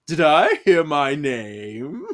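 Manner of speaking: bad French accent, stretched and playful. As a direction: make a slow, theatrical French-accented entrance. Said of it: "when I'm reading Giles' voice, I'm channeling".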